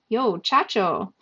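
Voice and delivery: slow stunned. Acted. Yasmani stunned, drawn out.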